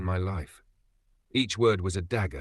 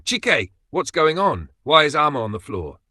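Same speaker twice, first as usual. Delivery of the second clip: alarmed question; 7 semitones higher, 7 dB louder than usual. Acted. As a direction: act shocked at what you see. Regina rushes in, alarmed.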